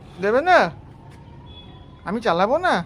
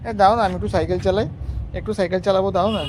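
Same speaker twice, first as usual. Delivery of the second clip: mock pleading; 5 semitones lower than usual. Begging the little one for a bicycle ride, mock whine. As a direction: plead like a sulky kid, a touch tearful.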